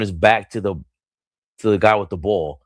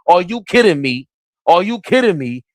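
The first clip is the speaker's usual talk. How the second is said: can't believe what just happened; amazed disbelief; 8 semitones higher than usual. Real, not acted. Disbelief at play.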